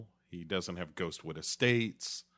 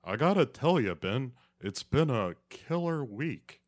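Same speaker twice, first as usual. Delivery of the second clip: mock action hero; 4 semitones higher than usual. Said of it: "And he's like".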